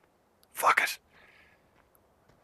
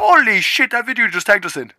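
still stunned; 8 semitones higher, 7 dB louder than usual. Real, not acted. Still reacting to the video.

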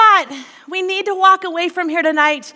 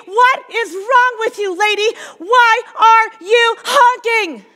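higher, scolding tirade at the other driver; road rage rant; 5 semitones higher than usual. Acted. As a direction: lecture her like a toddler, fuming. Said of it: "And we get road rage".

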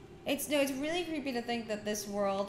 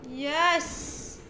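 higher, louder cry of victory; excited, rising exclamation; triumphant cheer; 6 semitones higher, 5 dB louder than usual. Real, not acted. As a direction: celebrate the find out loud. Celebrates a find in the game.

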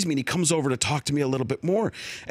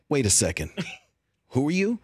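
Chris Evans impression. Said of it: "I do a decent Chris Evans".

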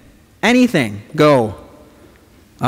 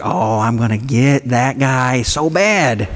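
scheming glee; 2 semitones lower, slower than usual. Retold or imitated. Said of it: "you're like".

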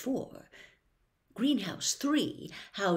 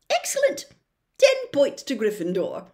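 louder, high excited praise; delighted teacher rewarding; beaming exclamation; Sprout pleased; 8 semitones higher, 8 dB louder than usual. Acted.

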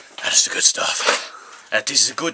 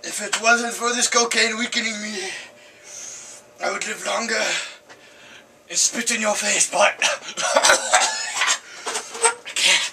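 put-on French accent; 6 semitones higher than usual. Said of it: "A French accent right now".

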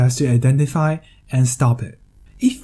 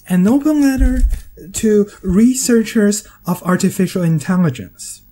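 announcing title; 5 semitones higher than usual. Shown as a demonstration. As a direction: lift open way up, announce it. Repeats title, higher and louder.

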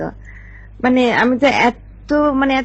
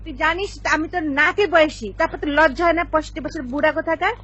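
high-pitched, indignant telling-off; angry scolding; 4 semitones higher, faster than usual. Acted. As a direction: tear into the caller, pitch raised. Woman scolding old prank caller. (রেগে চড়া গলায় বকুনি)

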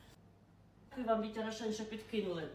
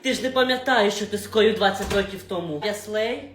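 loud, accusing confrontation; heated quarrel; 5 dB louder than usual. Acted. Mother threatens the boss over her daughter, loud. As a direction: threaten him to his face.

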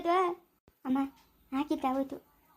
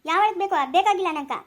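loud, higher angry snap; angry retort; 3 semitones higher, 4 dB louder than usual. Acted. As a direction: throw his offer back at him. Wife snaps at husband. (ಗಂಡನ ಸಹಾಯ ತಿರಸ್ಕರಿಸುವ ಹೆಂಡತಿ, ಜೋರಾದ ಸಿಟ್ಟು)

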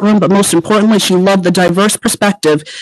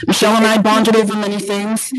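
muffled, like a covered mic; 3 semitones higher, 3 dB quieter than usual. Real, not acted. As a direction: speak through a covered mouth. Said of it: "you're a little muffled".

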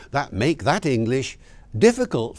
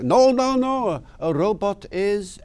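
put-on South African accent; 8 semitones higher than usual. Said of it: "in a lovely South African accent".

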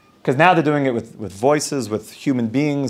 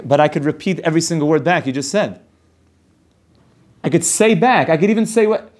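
defensive protest; 3 semitones higher than usual. Acted. Husband answering wife that he was listening, mildly defensive. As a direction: insist on it, building in pitch.

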